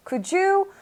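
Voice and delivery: mock-polite request, pitched high. Student asking to swap tables, polite and high-pitched. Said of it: "되게 공손하게 물어봤어요".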